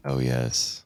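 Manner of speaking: audiobook character voice, put on; Thrawn. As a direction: answer in the audiobook villain's measured voice. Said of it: "is that how the audiobook version sounds".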